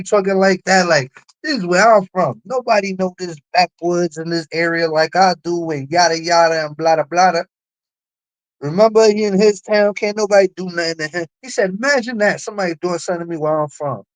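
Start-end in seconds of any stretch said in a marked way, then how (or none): 1.4-5.7 a touch louder, puffed-up local big shot; lightly hammed imitation of a man bragging about his town; mocking a boaster. Mocking the boogeyman's brag to the chat, lightly puffed-up voice. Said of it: "that's how he was talking at that time". 11.7-14.0 lightly mock his smug dare, racing to the end; mocking a boaster. Quoting the man's smug boast to the stream, mock cocky and rushed. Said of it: "that's how he was talking at that time".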